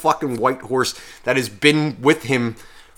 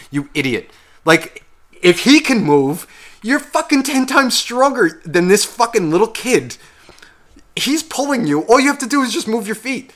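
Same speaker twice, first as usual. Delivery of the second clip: high-pitched, incredulous scolding, rising as it goes; retold rant at the horse, pitch climbing into a strained squeal; exasperated yelling; 7 semitones higher, 3 dB louder than usual. Viewer pleading with the horse on screen, exasperated yelling. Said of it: "I'm still yelling at the fucking horse".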